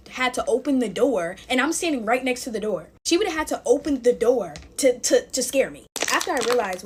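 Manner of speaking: ordinary talk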